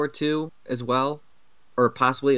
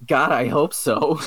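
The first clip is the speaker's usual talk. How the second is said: quoting a deadpan reply; 2 semitones higher, 4 dB louder, slower than usual. Retold or imitated. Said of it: "he responds with".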